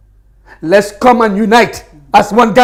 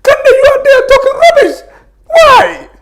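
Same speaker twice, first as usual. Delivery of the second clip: high, tearful, cracking voice; sobbing through the plea to unite; emotional, crying; 3 dB louder than usual. Real, not acted. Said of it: "you're getting emotional now".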